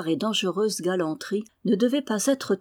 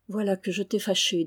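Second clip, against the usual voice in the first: gently. Acted. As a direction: soothe her friend mildly. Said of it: "dit-elle doucement".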